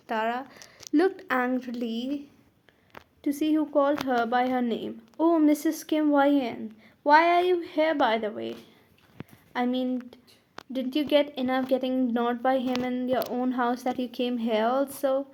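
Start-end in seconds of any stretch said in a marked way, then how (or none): 5.2-15.3 said loudly. Acted. Rival mocks her loudly in front of everyone. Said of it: "she said loudly".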